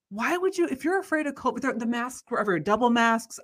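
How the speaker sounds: high-pitched disbelief; disbelieving, looking around at the masked crowds; incredulous. Retold or imitated. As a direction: pitch it up as if you can't believe it. Incredulous inner quote.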